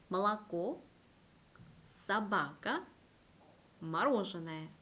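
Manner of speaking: 몰랐고, 사바카, 마로즈네 each leaning on its accented syllable; emphasised stressed syllable. Shown as a demonstration. Teacher repeats examples for learners, stressed syllables emphasised. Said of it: "그 단어를 조금 더 강조한다".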